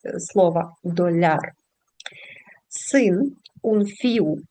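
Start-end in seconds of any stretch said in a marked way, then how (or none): 0.8-1.5 доляр with the stress on -ляр; stress on the last syllable. Shown as a demonstration. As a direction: lean on the end of доляр, not the start. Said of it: "Наголос падає в кінець". (наголос на останній склад: доляр)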